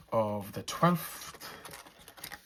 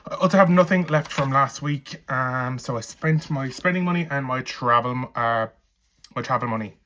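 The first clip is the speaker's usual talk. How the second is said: breathless, winded delivery; talking while short of breath; 4 dB louder than usual. Real, not acted. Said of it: "I don't know why I'm out of breath".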